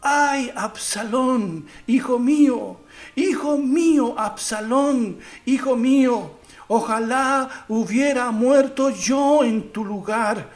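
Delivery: weeping lament. Acted. The king mourns his dead son, a mild slow lament. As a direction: cry out for the lost son, drawn out. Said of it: "lloraba y decía".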